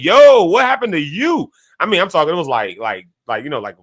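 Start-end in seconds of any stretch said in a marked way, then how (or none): 0.0-1.5 shocked question. Retold or imitated. Friends shocked by bandaged classmate.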